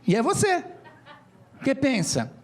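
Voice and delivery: normal talking voice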